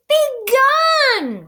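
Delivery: loud, high furious order; roaring Bear. A narrator's reading. Bear ordering the mouse gone, a loud roar. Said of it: "roared the bear".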